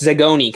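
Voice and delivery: "Zagoni" as zuh-GOH-nee, three syllables; self-correct to "Zagoni", ending on a clear "nee"; corrected pronunciation. Real, not acted. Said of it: "I finally said it right".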